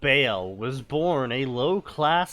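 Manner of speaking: slow, deliberate storyteller; dramatic story reading. Acted. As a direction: read it out slowly with dramatic weight. Reads a story aloud.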